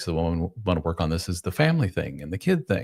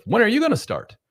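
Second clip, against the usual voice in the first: very high, mock female voice; scornful wife; 3 dB louder than usual. Wife looks slob husband up and down, high mock-scornful voice. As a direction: squeal it as an incredulous wife. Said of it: "she'll look at you up and down and go".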